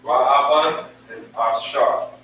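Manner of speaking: slow, deliberate "Rahaban and Ashar"; teacher reading names slowly; slow careful reading. Shown as a demonstration. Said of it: "That's how you pronounce it".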